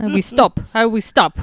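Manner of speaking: laughing through a broken-English imitation; halting learner's English, half laughing; mock broken English. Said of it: "trying to speak his broken English".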